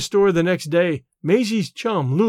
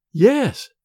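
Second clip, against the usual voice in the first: smiling; 5 semitones higher, 4 dB louder than usual. A narrator's reading. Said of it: "smiled Carter".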